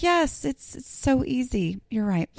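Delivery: sarcastic agreement. Retold or imitated. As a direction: fake agreement with an eye-roll. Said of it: "And you're like".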